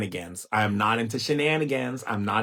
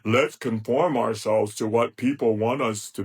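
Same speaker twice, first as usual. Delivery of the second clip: mock conformist; 2 semitones lower than usual. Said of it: "We do not play the game of".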